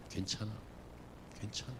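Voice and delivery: soft, low, reassuring murmur; comforting Jesus. Acted. Jesus comforting failed Peter, soft and low. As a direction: hush him gently, like soothing a child. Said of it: "예수님께서 뭐라고 하시냐면".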